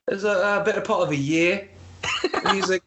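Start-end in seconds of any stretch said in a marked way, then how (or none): 0.1-1.7 a hint of mock British; imitated British accent. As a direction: answer in a lightly put-on British accent. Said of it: "guy with a British accent".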